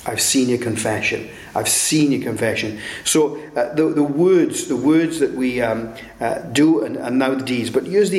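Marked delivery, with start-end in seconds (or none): 0.0-2.8 gentle forgiving Lord. Retold or imitated. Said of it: "the hand of the Lord will come and say".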